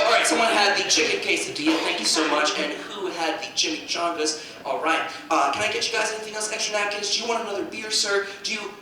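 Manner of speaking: low, soft, quick cheerful waiter patter; breezily serve tables as if fine. Retold or imitated. Comic playing the kid calmly waiting tables. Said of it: "He's gonna go".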